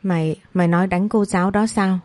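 ordinary delivery, nothing marked

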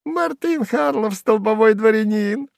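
high, mocking squeal; high jeering hanger-on voice; squeaky spiteful jester. A narrator's reading. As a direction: sneer at his pride. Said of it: "продолжал пищать Сувенир".

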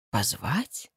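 unvoiced questioning whisper; hushed puzzled whisper. A narrator's reading. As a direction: breathe the word as a doubtful echo. Inner voice echoing the call.

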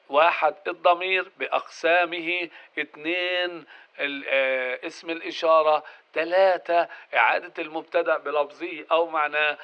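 normal talking voice

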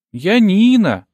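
put-on high, hurt little girl; offended child. A narrator's reading. Girl correcting the narrator about being a girl, high and hurt. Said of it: "обиженно сообщил ребёнок".

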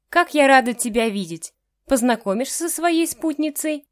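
put-on loud, high, fussing over her boy; proud mother fawning over son; gushing mother. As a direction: bubble over with joy at the visit.

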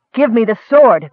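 storyteller's forceful elf shout; shouted demand. A narrator's reading. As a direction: shout it as an urgent order. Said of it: "the elf shouted".

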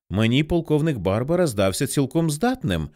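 plain reading voice

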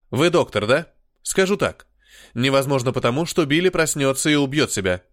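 put-on growled in a heavy Slavic accent. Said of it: "славянскому акценту".

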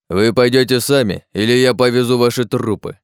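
loud, menacing growl; a guard growling a death threat at the travellers. A narrator's reading. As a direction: threaten them with death through the teeth. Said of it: "прорычал патрульный".

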